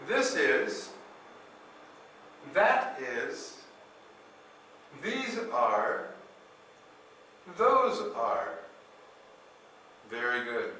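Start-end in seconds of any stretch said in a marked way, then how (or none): 0.1-8.5 "This is, that is, these are, those are" said slowly with clear TH; slow repeat-after-me drill. Shown as a demonstration. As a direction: model each word slowly for students to repeat. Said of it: "So repeat after me. Say".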